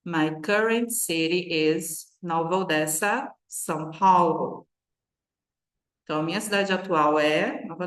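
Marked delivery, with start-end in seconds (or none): 0.0-4.7 slower model take. Shown as a demonstration. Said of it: "três vezes no mínimo, repetir".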